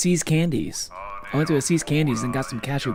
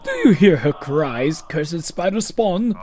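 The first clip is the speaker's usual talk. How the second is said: anguished NPC voice; 3 semitones higher, 3 dB louder, slower than usual. Acted. Voicing game NPC lines.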